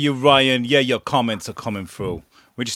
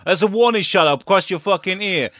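mock threatening; 6 semitones higher than usual. Dad warning a costumed weirdo away from kids, mock threatening. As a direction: act out warning off a creep, voice raised.

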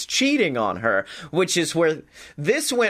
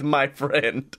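mock Watto; 4 semitones lower than usual. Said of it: "I turned into Watto".

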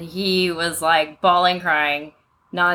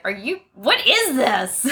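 slow, drawn-out disbelief, retold; mock bewildered child; baffled kid; 3 semitones higher, slower than usual. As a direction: imitate a child asking in bafflement. Baffled child reacting to long school day.

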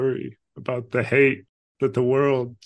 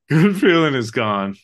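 laughing; 3 semitones higher, 6 dB louder than usual. Retold or imitated.

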